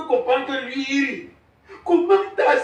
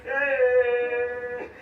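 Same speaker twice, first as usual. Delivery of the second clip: lamentation. Acted. Père pleure sa fille Béa.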